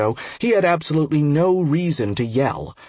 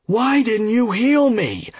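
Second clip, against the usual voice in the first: angry roar; 9 semitones higher, slower than usual. A narrator's reading. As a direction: roar it out in outrage. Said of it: "the dwarf roared".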